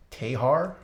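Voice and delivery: tentative Australian "Tehar"; Australian accent. Shown as a demonstration. Streamer guessing how Australians say a name, tentative Australian. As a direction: try an Australian accent, rising as if asking. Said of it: "Australian accent?".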